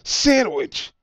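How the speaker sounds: poisoned man gasping out his realisation, high and loud; gasped. Acted. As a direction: choke the words out as the throat closes. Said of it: "he gasped".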